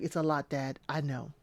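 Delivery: hushed mock Ashley; soft imitation. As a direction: murmur it tenderly to dad. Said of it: "Ashley's like".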